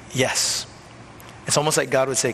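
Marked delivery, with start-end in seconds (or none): 0.1-0.7 breathy whispered "yes"; hushed reply. Acted. Jesus answering the doubter, whispered.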